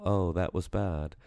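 soft, offhand mock reaction; nonchalant. Podcaster imitating the commentator's weak reaction, nonchalant. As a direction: toss it off as if it hardly matters. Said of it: "like, in such a nonchalant way".

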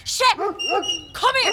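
high, loud call across a field; loud high call to the dog. Acted. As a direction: shout for the dog to come. Calling the dog loudly.

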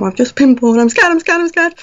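high-pitched retold fright, rising as it repeats; shy, scared confession. Client telling her trainee helper she's scared, shy and high-pitched. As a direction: go up into a small, scared plea. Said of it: "I was kind of shyly saying".

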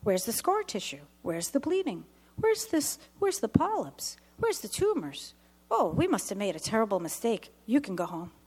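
lightly voiced doctor, pitch climbing in disbelief; a bewildered doctor searching for the tumors; puzzled doctor. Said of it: "The doctor says".

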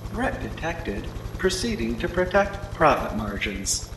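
flat computerized drone voice; robot voice. Acted. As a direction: speak like a cold machine. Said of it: "in one computerized voice".

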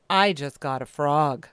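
put-on girl boasting about her new frog; proud teen quote. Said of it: "And she said to me proudly".

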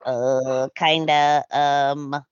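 lightly voiced awkward stammer; stammering Katie. Katie stuck for an answer, hesitant stammering. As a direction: hem and haw, lost for words. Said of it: "Katie's just kinda standing there like".

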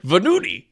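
Venuti said as "vənudi", Italian style; Italian name said carefully. Shown as a demonstration. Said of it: "It just says Venuti".

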